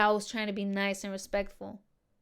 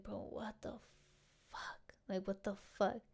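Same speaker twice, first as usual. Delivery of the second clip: softer, breathy hushed "what the fuck"; whispered disbelief; 14 dB quieter than usual. Retold or imitated. Muttering to herself about the coworker, hushed whisper. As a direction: hiss it under your breath so nobody hears. Reacting in disbelief to his message.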